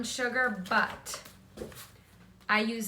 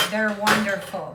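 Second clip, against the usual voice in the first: louder, punchy "They're wonderful"; emphatic praise; 7 dB louder than usual. Real, not acted. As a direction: say "They're wonderful" with real enthusiasm. Gushing about favorite barbecue channel.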